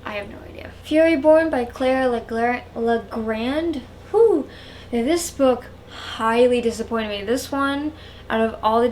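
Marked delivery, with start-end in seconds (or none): 4.1-4.5 high, loud "whew"; sharp exhaled whew before bad news; exasperated whew. Real, not acted. Sighs before a disappointing book.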